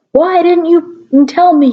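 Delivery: high, slow hammed-up shout; mock shout. A narrator's reading. Reader hamming up Draco's shout at Ebony. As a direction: overplay Draco's outrage. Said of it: "he shouted".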